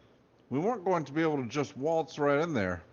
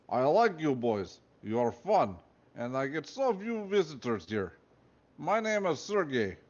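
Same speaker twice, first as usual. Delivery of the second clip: put-on Russian accent; 4 semitones higher than usual. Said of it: "He had a thick Russian accent".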